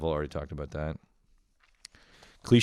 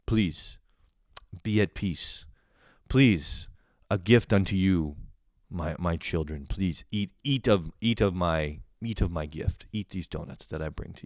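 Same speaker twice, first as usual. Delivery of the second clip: lightly voiced solemn blessing; handing out donuts to family as a mock messiah; mock-holy benefactor. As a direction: bestow the donuts like a saint, understated. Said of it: "I'm like".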